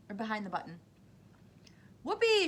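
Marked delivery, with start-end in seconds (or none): 2.0-2.5 high, loud whoop of joy; shouted whoopee. A narrator's reading. Mike spotting television chocolate, loud joyful whoop. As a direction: whoop it out like a thrilled kid. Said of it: "shouted Mike T V".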